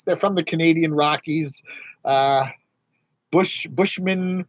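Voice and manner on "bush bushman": mock drawl. Naming channel in put-on voice.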